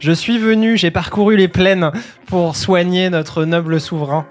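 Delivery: grand, slow showman pitch; pompous charlatan addressing the crowd. Acted. Charlatan doctor harangues crowd.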